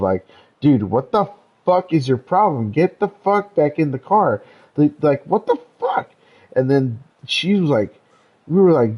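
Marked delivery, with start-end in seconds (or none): 0.6-6.1 exasperated, higher-pitched retelling of an upset demand; retold getting upset. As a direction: act out losing patience with a friend. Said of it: "getting upset of".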